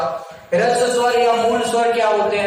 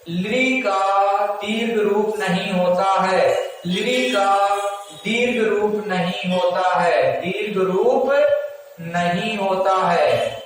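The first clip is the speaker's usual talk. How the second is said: slow dictation; 2 semitones lower, slower than usual. Shown as a demonstration. Dictating slowly for note-taking.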